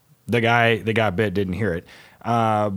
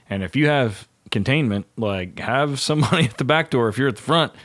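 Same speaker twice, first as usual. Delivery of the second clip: firm, mildly raised instructor voice; raised lecturing voice; 4 semitones higher than usual. Retold or imitated. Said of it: "and I yell at guys all the time".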